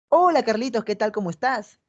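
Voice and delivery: a bright, eager hello to someone she likes; lively, inviting tone; interested greeting. Shown as a demonstration. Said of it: "Un mismo mensaje dicho de diferente manera". (saludo animado e interesado)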